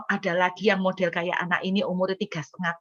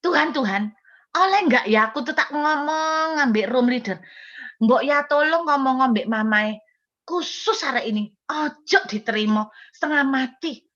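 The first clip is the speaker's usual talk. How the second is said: pleading prayer; 3 semitones higher than usual. Retold or imitated. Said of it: "Saya tuh sampai ngomong gini".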